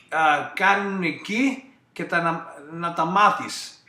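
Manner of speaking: switches into Greek on request; a short message in Greek for Athens listeners; natural conversational Greek; speaking Greek. Shown as a demonstration. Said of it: "gonna not give us a little, uh, uh, translation in Greece".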